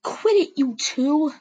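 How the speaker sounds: high, loud command to quit it; sharp call to stop. A narrator's reading. Swiftstar cutting in on two enemy cats, loud and high. Leader stepping between fighting cats.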